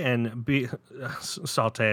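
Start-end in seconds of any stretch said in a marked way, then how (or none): 1.2-1.9 laughing retry. Real, not acted. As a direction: chuckle while re-saying "Sauté". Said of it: "I just think of sautéed onions".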